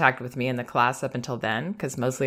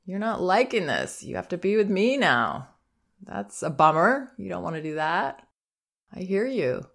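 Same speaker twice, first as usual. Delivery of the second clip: put-on raised, gentle voice that names the child's feeling; calm acknowledging; 5 semitones higher than usual. Shown as a demonstration. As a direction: acknowledge calmly, without drama. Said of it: "And just say something like".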